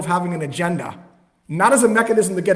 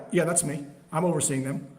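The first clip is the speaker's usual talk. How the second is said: low-key, offhand reply; casual; 3 semitones lower, 5 dB quieter than usual. Acted. Prospect confirming their role to a cold caller, casual. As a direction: answer casually, a little softer at the end. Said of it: "In a sort of casual way".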